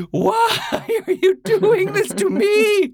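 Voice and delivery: half-laughing mock wail of betrayal; mock anguish at computer. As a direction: plead with the crashing computer in hammed-up despair. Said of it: "then you're just like".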